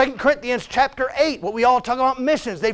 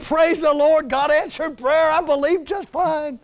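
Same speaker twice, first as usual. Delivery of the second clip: higher-pitched, lightly hammed-up rejoicing; mock elation; 5 semitones higher, slower than usual. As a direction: act out an eager praise report. Acted happy response to answered prayer.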